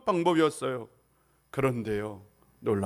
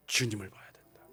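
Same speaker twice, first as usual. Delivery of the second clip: hushed whispered answer; 11 semitones lower, 8 dB quieter than usual. Acted. Preacher whispers the answer to the congregation. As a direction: drop to a breath of a whisper.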